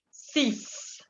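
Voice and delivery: "Six" ending in a hissed S sound. Shown as a demonstration. Teacher showing French six, X as S. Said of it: "la X se pronuncia como una S".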